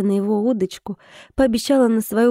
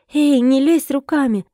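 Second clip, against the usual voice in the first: sharp raised warning, a bit higher and louder; warning cry; 4 semitones higher, 4 dB louder than usual. A narrator's reading. Wife warns husband off the melted chocolate, sharp raised voice. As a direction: snap a warning at a hand sneaking into the chocolate. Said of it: "предостерегла его я".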